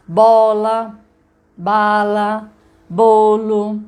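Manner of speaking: "Bola", "bala", "bolo" called out loud and distinct; showing the shared first sound in "Bola", "bala", "bolo"; demo word list. Shown as a demonstration. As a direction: hit each of "Bola", "bala", "bolo" loudly and apart. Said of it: "Mostra a lista de palavras".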